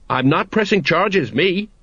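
high, hasty disclaimer; hurried. A narrator's reading. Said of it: "said the sergeant hurriedly".

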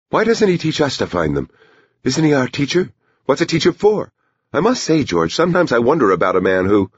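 high-pitched, complaining woman; grouchy. A narrator's reading. Bonnie complains to her husband about the teacher, grouchy. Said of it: "Bonnie said in a grouchy voice".

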